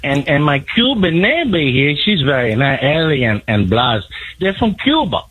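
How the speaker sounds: Cuban accent impression. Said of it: "not bad for a white guy".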